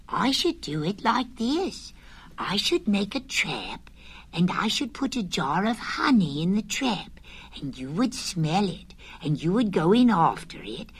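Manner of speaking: small eager pig plotting, half hushed; Piglet voice. Acted. Piglet explaining his trap plan to Pooh.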